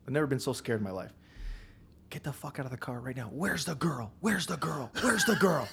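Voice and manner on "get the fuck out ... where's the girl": rising into a shouted higher demand; mock cop yell. Cop screaming at a stopped driver, building shout. Cop yelling at him in retelling.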